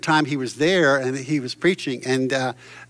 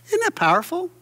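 excited exclaim. Real, not acted. Preacher exclaiming.

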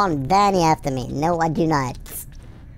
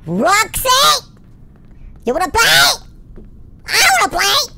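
high loud playful calling; excited taunt; 6 dB louder than usual. Real, not acted. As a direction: call out to tease her. Taunting the enemy Roxy.

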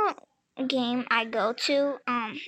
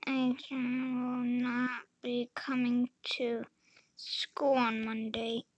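whispered reading; 5 dB quieter than usual. Real, not acted. Reading a note quietly.

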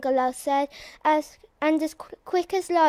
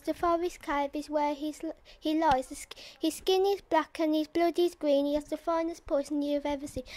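softer, hushed creature voice that creeps; 8 dB quieter than usual. Acted. The bungalow introduces itself to the frog, hushed and menacing. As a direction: let the monster breathe its menace softly.

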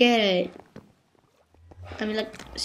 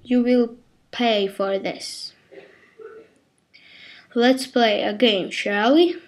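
lightly voiced villain, measured and menacing; a hint of evil overlord, ending in an evil laugh; villainous game master; 5 dB louder, slower than usual. Game host threatening the foolish players, lightly voiced villain.

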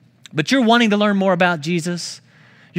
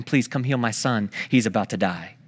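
pleading father; 8 semitones lower, 5 dB quieter than usual. Retold or imitated. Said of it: "he starts begging him".

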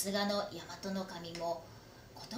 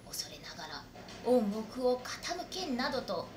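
hushed warning; 6 dB quieter than usual. Acted. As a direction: warn him softly but firmly. Retainer lowers voice to warn.

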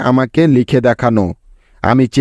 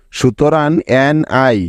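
slow spelling. Shown as a demonstration. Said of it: "ন এর সাথে ইকার আছে".

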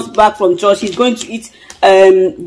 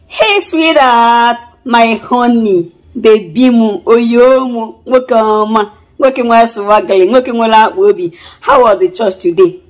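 rehearsed sweet talk; slower than usual. Pretend. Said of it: "Let me practice what I'm going to do".

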